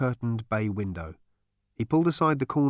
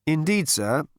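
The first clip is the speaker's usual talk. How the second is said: slightly raised, polite patience; patient waiter; 6 semitones higher, 3 dB louder than usual. A narrator's reading. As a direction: humour the customer patiently. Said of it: "said the waiter patiently".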